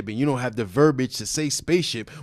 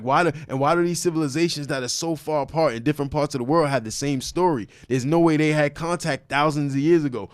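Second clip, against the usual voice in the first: passionate, insistent argument, pitched higher; impassioned; 3 semitones higher than usual. Real, not acted. Convincing doubtful friends the ancient stories are true, impassioned. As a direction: press the case with real conviction. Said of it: "you're extremely passionate about this".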